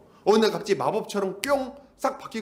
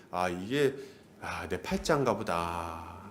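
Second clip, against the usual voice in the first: low, slow sighing self-talk; thoughtless resignation; 11 semitones lower, 7 dB quieter, slower than usual. Acted. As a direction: give up and accept your lot, lightly mocked. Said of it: "생각 없이". (생각 없이 체념하는 느린 혼잣말)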